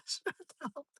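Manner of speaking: loud, high mock shut up; mock annoyed snap. Fed-up viewer telling her to stop, loud mock annoyance. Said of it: "you're just like".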